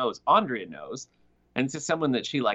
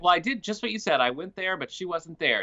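high whiny excuse; 5 semitones higher than usual. Retold or imitated. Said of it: "she's like".

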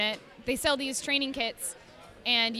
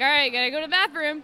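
mock announcement; 3 semitones higher, 6 dB louder, faster than usual. Acting out her morning announcement.

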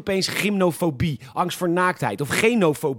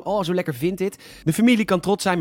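mock praise. Host fakes praise for the minister's family, mock proud. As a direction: sell the compliment before the joke. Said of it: "maar nee, een grapje".

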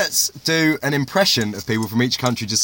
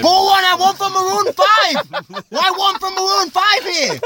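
mock Asian fan. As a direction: squeal like a fan spotting a star. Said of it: "people in Asia thought".

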